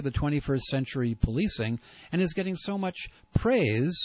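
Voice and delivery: sarcastic praise, dripping with disdain; mock the sheriff with skeptical scorn; scornful sarcasm. Real, not acted. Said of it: "You can hear, perhaps, the skepticism, the scorn, and the disdain in my voice".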